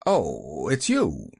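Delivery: low, grudging acknowledgement; ungracious. A narrator's reading. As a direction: greet the visitor with little welcome. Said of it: "not very graciously".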